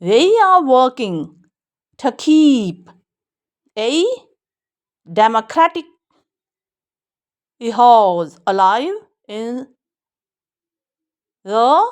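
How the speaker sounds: very slow, each word drawn out; slow model reading. Shown as a demonstration. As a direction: read the sentence slowly for the class. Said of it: "model sentence read again".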